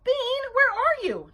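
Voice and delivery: high, loud, drawn-out call; searching call. A narrator's reading. Babysitter hunting for Bean, calling out. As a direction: call out slowly at full volume.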